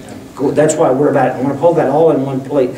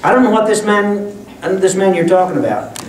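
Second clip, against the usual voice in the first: raised-pitch, mildly acted denial; higher, lightly played sailor's protest; acted sailor's swearing denial; 5 semitones higher than usual. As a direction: deny it like a cursing sailor. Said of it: "He used Navy language".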